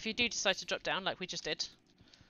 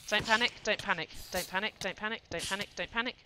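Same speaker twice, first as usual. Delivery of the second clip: shakily calming oneself down. Real, not acted. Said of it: "We're panicking".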